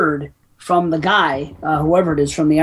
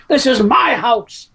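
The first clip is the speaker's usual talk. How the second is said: slow, higher-pitched imitation of anger; mad; 5 semitones higher, slower than usual. Imitating the father when he's mad, slow mock anger. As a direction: draw it out like the angry old character. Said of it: "when he's mad, he's like".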